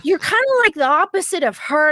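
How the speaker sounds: quoting creepy stranger. Retold or imitated. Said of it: "And he goes".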